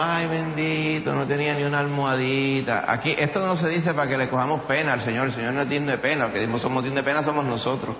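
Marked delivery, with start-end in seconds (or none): 0.0-2.9 mock pitying Puerto Rican sigh; Puerto Rican lament. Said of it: "Si fuéramos puertorriqueños ... diríamos".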